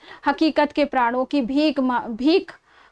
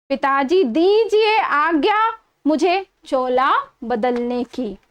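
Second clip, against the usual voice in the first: fervent verse; 2 semitones higher than usual. A narrator's reading. Recited martyr poem, rising pitch.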